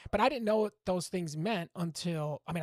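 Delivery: ordinary talk, nothing marked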